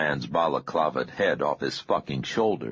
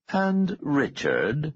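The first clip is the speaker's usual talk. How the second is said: higher, slow pointed address; commanding boss; 10 semitones higher, much slower than usual. Acted. Boss stopping Richard before he goes, pointed command. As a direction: call the subordinate back, drawn out and high. Boss adds warning to subordinate.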